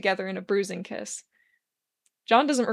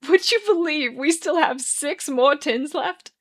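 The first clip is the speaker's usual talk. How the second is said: a bit crazy; 6 semitones higher, 6 dB louder, slower than usual. A narrator's reading. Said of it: "Arthur laughs a bit crazily".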